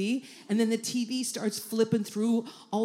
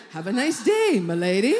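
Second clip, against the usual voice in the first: butler ghost; 4 dB louder than usual. Acted. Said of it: "Like a butler ghost".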